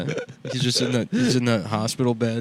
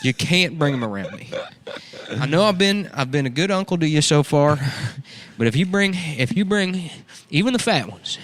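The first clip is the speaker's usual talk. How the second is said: redneck uncle character; 3 semitones higher than usual. Acted. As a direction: play a creepy uncle warning her. Uncle lecturing niece in character.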